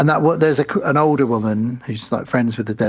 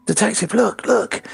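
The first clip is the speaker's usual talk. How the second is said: higher, urgent call to look; alarmed assistant; 8 semitones higher than usual. Retold or imitated. Assistant cop alerting the detective, higher and urgent. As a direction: point and call out. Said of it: "assistant cop says".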